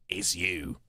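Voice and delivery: low, lightly hoarse murmur. Acted. Man recognising her in the story, hoarse. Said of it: "he said hoarsely".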